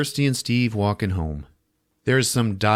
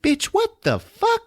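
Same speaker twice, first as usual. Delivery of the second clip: very high, drawn-out shriek of disbelief; hammed-up horrified squeal; mock freak-out. Julia recoiling from Frank, mock freak-out. Acted shocked reaction to Frank.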